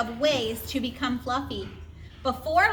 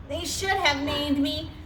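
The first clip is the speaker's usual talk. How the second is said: sighing; 2 semitones higher, slower than usual. Acted. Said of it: "he sighed".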